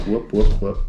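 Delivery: lightly imitated guinea pig whoops; a hint of a guinea pig squeak. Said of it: "That's how a guinea pig sounds".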